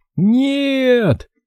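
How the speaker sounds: very high, drawn-out, horrified wail. Gabriel cries out as the old cloak goes on his hanger, with a howl of horror. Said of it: "в ужасе взвыл Габриэль".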